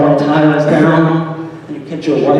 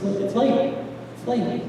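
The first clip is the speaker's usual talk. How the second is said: puzzled repeating; 7 semitones higher, 8 dB quieter, slower than usual. Retold or imitated. Husband puzzles over wife's words.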